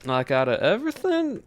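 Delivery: put-on southern accent. Streamer chatting with chat in a put-on Southern accent. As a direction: keep a Southern US accent going the whole stream. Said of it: "It's a southern accent".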